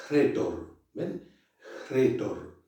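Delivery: "Retor" with a breathy H before the R, as if hretor; rough breathing on retor. Shown as a demonstration. Teacher models "Retor" with rough breathing. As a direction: push air out before "Retor". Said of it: "cómo se pronuncia".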